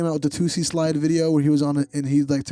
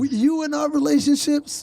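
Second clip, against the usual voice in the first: Voice of a well-known DJ; 13 semitones higher than usual. Pretend. Impression of the DJ continued.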